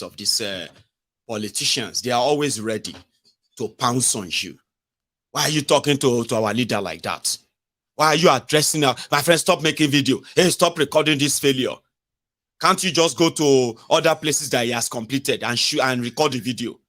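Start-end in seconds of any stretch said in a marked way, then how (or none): 5.3-16.8 loud, scolding party loyalist, mock-indignant; mock angry supporter. Commentator mimics a loyal supporter scolding the filmer, loud and indignant. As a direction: play the supporter who pounces on anyone filming.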